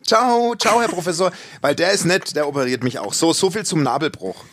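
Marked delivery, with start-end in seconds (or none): 0.0-1.3 high, bright and loud farewell; loud cheerful goodbye. Pretend. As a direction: call it out sweetly. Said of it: "sagst dann ganz laut".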